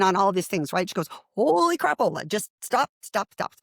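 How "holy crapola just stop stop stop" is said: high start, dropping into repeated stops; astonished interruption. Retold or imitated. Teacher stopping the student's rattled-off reading, astonished. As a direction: imitate an amazed teacher calling a halt.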